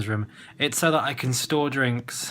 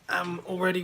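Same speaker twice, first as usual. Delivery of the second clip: whisper; 5 semitones higher than usual. Real, not acted. Tired vlog confession.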